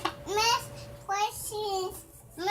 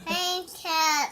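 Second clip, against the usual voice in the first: louder; 5 dB louder than usual. Real, not acted. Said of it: "I can't hear you".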